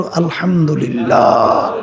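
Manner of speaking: low, slow, drawn-out praise; lightly acted chorus of grateful geese; geese speaking together. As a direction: stretch out the last syllable like a chorus giving thanks. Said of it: "হাঁসগুলো একসঙ্গে বইলে উঠল".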